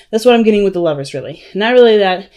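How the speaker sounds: talking while winded; short of breath between words. Real, not acted. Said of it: "I'm sorry, I'm out of breath".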